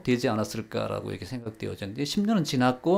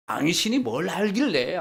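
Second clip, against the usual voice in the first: irritated retort; 6 semitones higher than usual. Shown as a demonstration. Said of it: "안 좋은 반응이 나와요".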